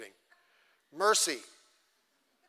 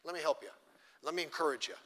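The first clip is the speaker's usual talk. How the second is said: softer, gently soothing; mock gentle comfort; 2 semitones lower, 6 dB quieter than usual. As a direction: comfort them like a kind friend. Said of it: "a mercy says".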